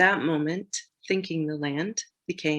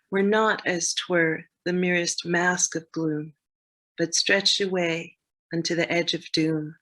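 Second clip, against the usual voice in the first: measured poetry reading; formal recital of rhymed verse; poem recital. Acted. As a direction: recite the verse line by line, with pauses. Reads Frost poem excerpt.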